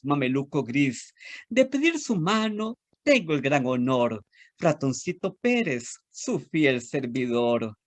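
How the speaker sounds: lilting, sing-song storytelling read; animated children's poem reading. Acted. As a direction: recite it like a rhyme for little kids. Reads a children's poem aloud.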